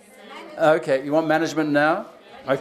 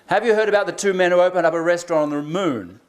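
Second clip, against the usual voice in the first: joke telling. Shown as a demonstration. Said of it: "Here's another one".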